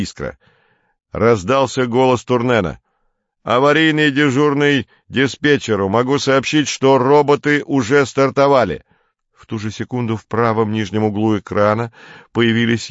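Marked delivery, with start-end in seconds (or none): 3.4-8.8 raised, emphatic official report; higher, firmly projected announcement; emergency report. A narrator's reading. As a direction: report urgently to the dispatcher. Emergency report from Turnen over comms.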